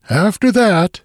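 high, loud frantic outburst; helpless, frantic. A narrator's reading. The Swede after the cry overhead, frantic. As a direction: let panic push the voice up. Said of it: "he said in a sort of helpless, frantic way".

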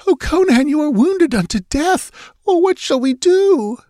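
high, frantic tearful cry; a hysterical high sob over his wounds; sobbing hysterically. Acted. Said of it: "sobbing hysterically".

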